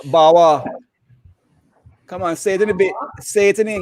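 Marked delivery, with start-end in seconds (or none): 0.1-0.6 Bajan word. Shown as a demonstration. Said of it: "A real strong Bajan accent".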